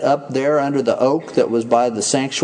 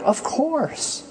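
mock dismissive; 11 semitones higher, 4 dB quieter than usual. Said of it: "They just like".

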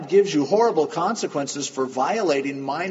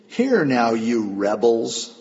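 loud, drawn-out scolding of a crowd; mock-angry address, stretched out; retold angry rebuke; 4 semitones lower, 5 dB louder, slower than usual. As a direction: imitate an angry leader, loud and slow. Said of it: "He was mad".

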